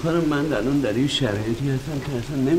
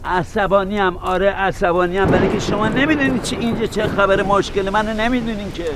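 raised, rapid exasperation; irritated on the phone; 5 semitones higher than usual. Acted. Lost man snapping at the caller, irritated. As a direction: snap back that you don't know what is going on. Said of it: "چرا انقدر عصبانی هستی".

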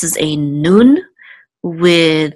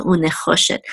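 "unechoshet" accented on "cho"; stress on CHO. Shown as a demonstration. Teacher reminding a student of the accent, "cho" in "unechoshet" stressed. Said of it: "the accent is on cho".

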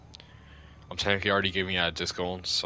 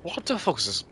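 indignant raised voice at an opponent; angry; 6 semitones higher, faster than usual. Real, not acted. Yelling at game opponent.

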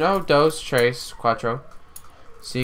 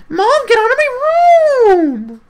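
high yell; 10 dB louder than usual. Pretend. Yelling at mom.

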